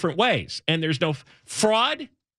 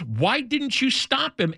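incredulous; 5 semitones higher than usual. Retold or imitated. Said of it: "looks at the clerk and says".

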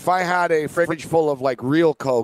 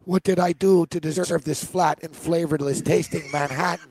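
mobster impression. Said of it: "I do a good impression of the mobster".

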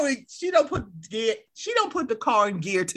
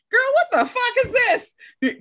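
mock friend; 13 semitones higher than usual. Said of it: "She was like".

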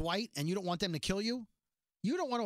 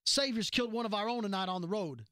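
lightly voiced steely leader; Maggie impression; 3 semitones higher than usual. Maggie addressing her people after the shooting, mildly stern. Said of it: "Nailed it, right? It sounded like Maggie was actually here".

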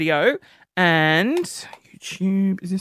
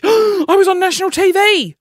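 high, louder sudden burst; excited gasp; 12 semitones higher, 6 dB louder than usual. Real, not acted. Host suddenly remembering his TV appearance, excited. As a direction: gasp and blurt it out thrilled.

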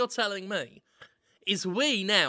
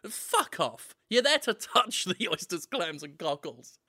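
usual speaking voice

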